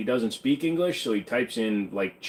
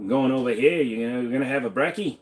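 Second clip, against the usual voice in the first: put-on Aussie accent. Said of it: "Trying to learn the Aussie accent".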